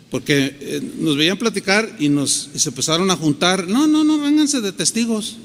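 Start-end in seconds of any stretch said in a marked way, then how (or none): 3.7-5.4 high, raised call to onlookers. Retold or imitated. Preacher retelling how he called bystanders as witnesses, calling out. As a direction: summon people over, insistently.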